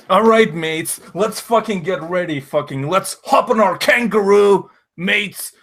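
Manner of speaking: high, loud mock Australian rallying cry; rally the mates in a shaky-fake Aussie accent; hammed-up Aussie accent. Hammed-up Aussie mate rallying everyone.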